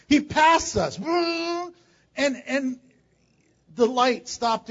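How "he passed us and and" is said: laughing. Real, not acted. Laughing while telling traffic story.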